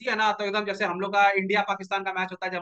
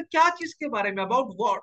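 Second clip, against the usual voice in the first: feigned innocence; 2 semitones higher than usual. Retold or imitated. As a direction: play innocent, pitched up at first. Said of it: "एकदम innocent".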